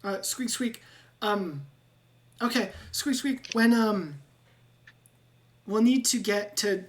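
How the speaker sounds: a nervous rat pleading, squeaks between words; squeaky rat-man. Acted. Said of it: "Ratrick will go".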